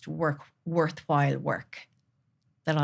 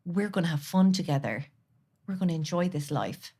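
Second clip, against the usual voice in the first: tender. Real, not acted. Speaking to inner child.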